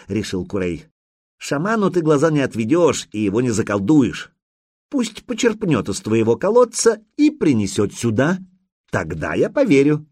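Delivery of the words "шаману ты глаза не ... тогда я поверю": khan voice. Acted.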